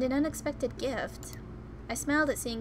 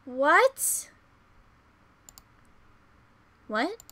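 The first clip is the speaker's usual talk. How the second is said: screaming what, fading each time; huge disbelieving yell fading away; shocked shout; 6 semitones higher, 20 dB louder, much slower than usual. Real, not acted. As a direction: yell in disbelief then calm down. Reacting to Yunho's extreme line.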